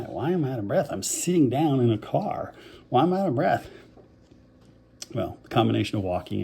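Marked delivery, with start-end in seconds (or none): 0.0-3.7 higher-pitched, mock-incredulous self-questioning; baffled questioning. Asking himself while sitting down in a car, baffled. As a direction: act out puzzled disbelief, rising as it repeats. Retold puzzlement at being breathless.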